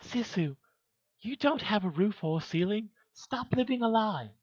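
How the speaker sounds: high-pitched scolding put-on voice; high, mock-indignant character. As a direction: tell them off in a high affected voice. Answers chat in character voice.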